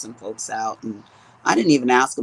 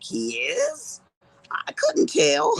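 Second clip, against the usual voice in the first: acted cluelessness; slower than usual. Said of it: "I'm like".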